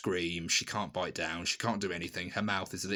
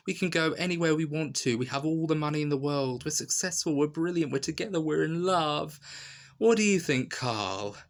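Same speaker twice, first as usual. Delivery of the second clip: excited, higher-pitched mock gushing; gushing wife; 7 semitones higher than usual. Wife dreaming aloud of travel to her husband, gushing. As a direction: act out her giddy list of plans.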